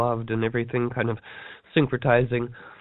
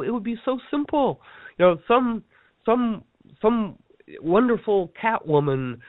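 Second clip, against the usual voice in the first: higher-pitched exasperated pleading, voice pitched up; 5 semitones higher than usual. Retold or imitated. Telling listeners about starving monastery cats, higher exasperated plea. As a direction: plead it high, fed up that it's so easy.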